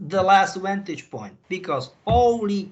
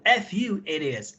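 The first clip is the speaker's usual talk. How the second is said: muttered curse. Real, not acted. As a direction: mutter it, the anger sinking. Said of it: "Sorry, f-, sorry that, guys".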